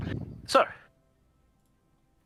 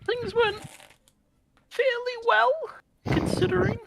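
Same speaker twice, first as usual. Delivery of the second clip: high, ironic singsong; sarcastic understatement; 4 dB louder than usual. Acted. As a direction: say it with wry irony.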